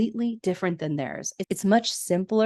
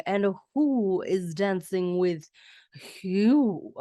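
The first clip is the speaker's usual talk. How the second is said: seductive; slower than usual. Retold or imitated. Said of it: "tries to seduce Lionel by saying".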